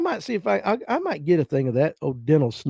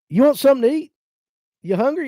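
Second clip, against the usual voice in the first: put-on higher sweet old granny voice; granny offering food; 9 semitones higher, faster than usual. Granny Pruitt offering her grandson something to eat, higher voice. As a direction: push the food on him kindly. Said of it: "she'd say".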